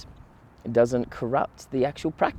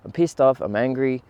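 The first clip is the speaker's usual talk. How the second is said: pissed off punched, louder and higher; angry; 3 semitones higher, 4 dB louder than usual. Retold or imitated. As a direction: let the anger burst out on the repeat. Repeats anger with force.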